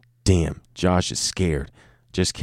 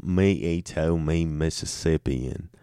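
quieter caveman intro, less smiling; straighter caveman take; 3 semitones lower, 6 dB quieter than usual. Acted. Second caveman intro, trying not to smile. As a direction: say it flatter and softer this time. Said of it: "I was smiling too much when I said that".

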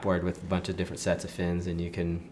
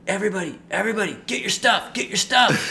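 much higher, louder, laughing hurried shout; rally everybody in a laughing rush; excited rousing call; 13 semitones higher, 6 dB louder than usual. Retold or imitated. Guide urgently rousing the group.

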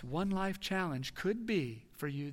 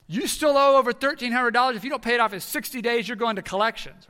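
stern collections letter; 6 semitones higher, 10 dB louder than usual. Retold or imitated. Hospital letter read aloud, dramatic.

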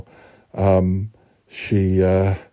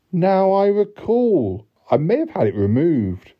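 blushing coyness; 8 semitones higher than usual. A narrator's reading. Blushing lady admitting to the man, coy. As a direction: act a coy, bashful confession. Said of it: "Blushing, said she".

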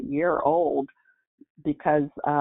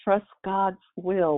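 struggling for breath; 3 semitones higher, slower than usual. Retold or imitated. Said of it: "he'd try to spurt out a couple of words".

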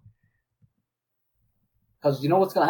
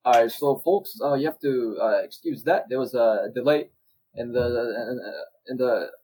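British commentator; 2 semitones lower, slower than usual. Pretend. Improvised British commentator act.

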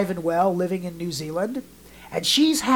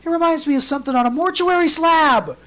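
retold grandfather; 10 semitones higher, 5 dB louder than usual. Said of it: "he goes".

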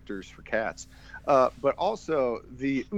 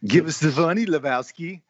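bad German accent; 5 semitones higher, 5 dB louder than usual. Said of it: "He was faking this bad German accent".

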